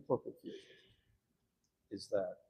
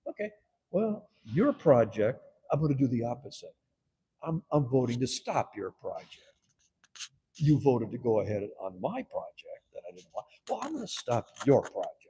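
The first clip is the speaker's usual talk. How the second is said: retaliating; 7 dB louder than usual. Retold or imitated. He retaliates in council.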